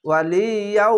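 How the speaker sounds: "ওয়ালিয়াউ" with a long nasal hum on the merged ending; idgham with ghunnah. Shown as a demonstration. Teacher demonstrating the merging rule, "ওয়ালিয়াউ" drawn out with ghunnah. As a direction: hold and hum the end of "ওয়ালিয়াউ". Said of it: "এখানে ঈদগামে বা গুণ না".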